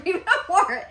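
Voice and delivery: chuckling through the words, quickly; quick amused half-laugh. Real, not acted. Amused about husband's unworn sweater.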